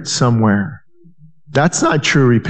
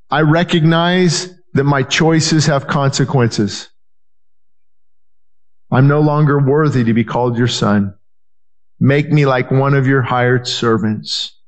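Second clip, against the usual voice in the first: humble plea; 4 semitones lower than usual. Retold or imitated. Humble son's confession.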